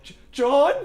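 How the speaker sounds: high, loud, cracking with fear; a scared call with a breaking voice. Retold or imitated. Scared in the dark room, calling to the drunk roommate: voice cracks. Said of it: "my voice is cracking".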